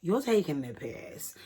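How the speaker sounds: long drawn-out disbelief; slow, stunned reaction; incredulous Mene. Retold or imitated. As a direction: stretch the "what" in mock shock. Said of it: "If you know Mene, Mene's like".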